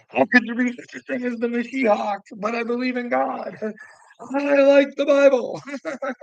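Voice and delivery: high, mocking squeaky voice of the narcissist; mocking impersonation. Mocking the narcissist who claims to be Mashiach, high squeaky parody.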